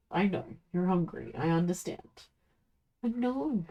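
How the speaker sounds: soft, gentle soothing murmur to the dog; soothing pet talk. Real, not acted. Streamer soothing her hungry dog, softly.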